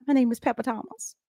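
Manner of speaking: lightly put-on Southern accent; a touch of Southern accent. Shown as a demonstration. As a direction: say the name with a Southern lilt. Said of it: "trying to get my Southern accent on".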